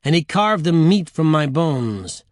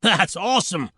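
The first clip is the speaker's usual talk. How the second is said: pitched-up, delighted devil voice; gleeful devil; 4 semitones higher than usual. Acted. Devil thrilled by the gory tale, gleeful cry. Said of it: "cried the devil".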